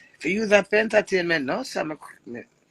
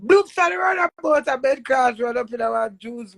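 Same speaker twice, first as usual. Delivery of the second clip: laughing; 5 semitones higher than usual. Real, not acted. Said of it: "That's how me start laugh".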